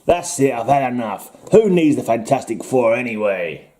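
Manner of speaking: lightly put-on Ben Grimm accent; a hint of a comic-book hero's accent. Hero quitting the Fantastic Four, mild put-on Ben Grimm accent. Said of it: "that was a good Ben Grimm accent".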